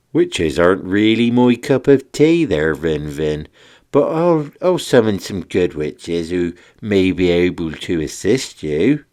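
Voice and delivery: lightly voiced friendly wizard; a hint of a jolly wizard; Shark Wizard, obliging. Wizard offers Vin help, lightly characterful.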